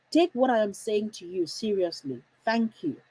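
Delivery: calm, even directive ending in thank you; composed, no-nonsense order; firm instruction. Shown as a demonstration. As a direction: state it as already settled. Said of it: "I have emphasized with body language".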